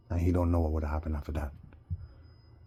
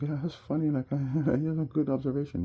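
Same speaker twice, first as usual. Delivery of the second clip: imitating a laughing cop; 8 semitones higher than usual. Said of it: "they kinda laughed".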